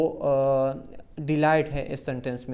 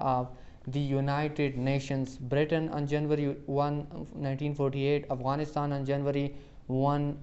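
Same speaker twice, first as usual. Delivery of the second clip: slow quiz reading; much slower than usual. Acted. Teacher reads the question to students, slow and even. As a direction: question and dates read slowly and evenly.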